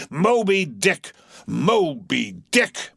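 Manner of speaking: drawn out, slowing; slow brooding repetition. Acted. Captain brooding on the whale, slow. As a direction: let the name linger. Repeats name.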